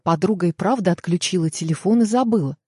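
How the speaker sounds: ordinary delivery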